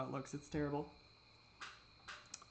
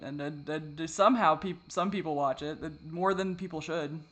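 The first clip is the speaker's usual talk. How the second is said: ordinary delivery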